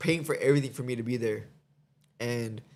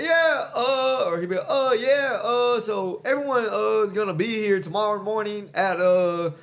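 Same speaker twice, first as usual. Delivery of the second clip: mocking a hesitant boss, higher and halting on every "uh"; hammed-up halting speech full of "uh"; Dana White impression; 6 semitones higher, 4 dB louder, slower than usual. Mocking the UFC boss's stilted briefing, halting. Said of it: "Every sentence started and ended with the word, "uh".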